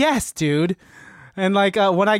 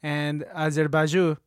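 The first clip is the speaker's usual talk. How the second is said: General of Kazakhstan; 2 semitones lower, 3 dB quieter than usual. Acted.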